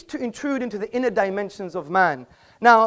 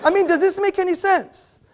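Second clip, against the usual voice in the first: raised voice with a laugh through it; 9 semitones higher, 4 dB louder than usual. Real, not acted. Joking with the laughing audience, amused laughing delivery. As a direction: chuckle while landing the joke.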